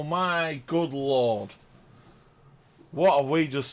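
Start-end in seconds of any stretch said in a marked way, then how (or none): 0.0-1.5 slow stunned murmur. Real, not acted. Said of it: "I haven't said that for a while".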